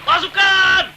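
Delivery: loud clipped parade order; halt command. Acted. Instructor halting the marching squad, loud command. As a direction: bring the squad to a stop.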